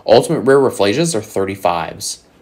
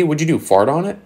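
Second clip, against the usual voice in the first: pitched up, needling disbelief; mock incredulous; 8 semitones higher than usual. Real, not acted. Vlogger ribbing sellers of damaged cards, mock incredulous. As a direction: ask it high, rising at the end. Mocking a damaged card's price.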